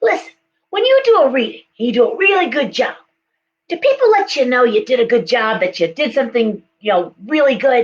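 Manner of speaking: put-on conversational New York accent, swooping tune. Retelling a conversation from a few years ago, speaker quotes Megan: imitating Megan's New York accent. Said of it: "she had this like wonderful New York accent".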